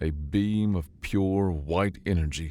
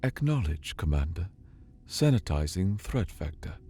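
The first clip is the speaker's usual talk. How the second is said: calm placid voice. Acted. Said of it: "the calm, placid voice".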